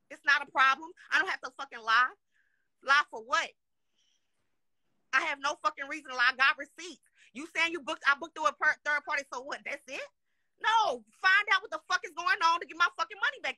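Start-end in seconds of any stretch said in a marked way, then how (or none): 0.1-8.5 loud, heated insistence; real anger, voice raised throughout; angry raised voice. Real, not acted. Angry live rant over lost money. 10.6-13.5 a loud, much higher "No" into an angry yell; real rage, shouted; furious shout. Real, not acted. Angry live rant over lost money.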